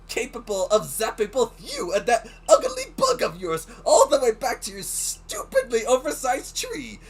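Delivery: indignant Italian snap-back, defending her Pokemon; Italian accent. Acted. Melly rounding on the rival warden, in a hammed-up Italian accent. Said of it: "giving Melly a, uh, Italian accent".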